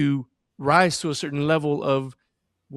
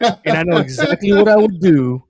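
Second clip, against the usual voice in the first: mildly angry, growing louder; retold anger; 8 dB louder than usual. Dad answering wife's boyfriend question, retold anger. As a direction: replay your irritated comeback, half in earnest. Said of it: "like, angry 'cause I was like".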